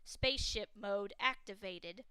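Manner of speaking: slow, even machine voice; automated ship announcing a mode change; electric computer voice. Acted. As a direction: speak like an onboard computer. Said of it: "an electric voice responded".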